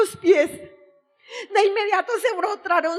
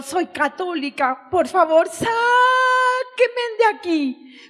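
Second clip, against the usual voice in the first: shout again. Retold or imitated. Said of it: "yo grito de nuevo".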